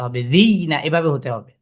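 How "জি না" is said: জি closed on a y before না; জি-y caught, then না; sakin on ya. Shown as a demonstration. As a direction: sound the sakin y at the end of জি, then না. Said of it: "সাকিনের উচ্চারণ করে ইয়াকে উচ্চারণ করতে".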